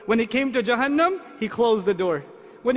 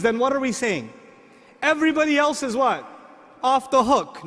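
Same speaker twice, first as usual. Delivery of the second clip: normal talking voice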